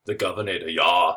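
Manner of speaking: bad mock Austrian accent; hammy, clumsy stab at an Austrian accent; badly faked Austrian strongman voice; Arnold Schwarzenegger. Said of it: "that was the worst Arnold impersonation ever".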